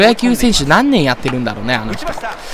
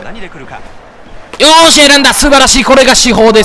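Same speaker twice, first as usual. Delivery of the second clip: drawn-out, higher and louder cheer; excited; 5 semitones higher, 3 dB louder, slower than usual. Real, not acted. Gamer cheers his batter for drawing the walk, excited. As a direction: celebrate the walk loudly.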